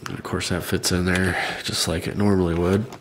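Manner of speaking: stuffed-up nasal voice after surgery. Real, not acted. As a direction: talk through a blocked nose. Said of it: "uh, nasally voice".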